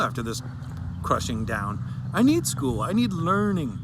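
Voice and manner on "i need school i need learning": louder, higher, pressing each need; emphatic plea. Real, not acted. Child on her recorded story, pleading loudly about missing school. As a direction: insist you need school.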